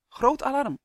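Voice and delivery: high, loud warning cry; shouted alarm. A narrator's reading. King rousing everyone in the throne room, shouted. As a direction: raise the alarm urgently. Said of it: "schreeuwde hij".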